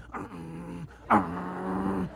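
low, effortful mock grunt; straining bird grunt. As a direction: imitate a tiny bird biting with all its might. Imitates sparrow straining to bite.

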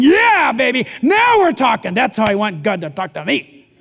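a listener thrilled at thunder; mock excited listener. Pastor imitating a churchgoer craving spectacle, mock excited. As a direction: play it eager and giddy. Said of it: "And you're going".

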